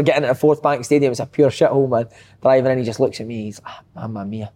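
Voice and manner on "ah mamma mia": Massimo Donati. Retold or imitated. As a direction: grumble slowly like a dismayed Italian footballer. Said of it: "Massimo's sitting and he's".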